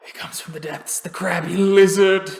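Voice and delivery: acted delirium swelling to a shout; panicked raving. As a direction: gasp it out, then cry out in alarm. Same victim raving over questions.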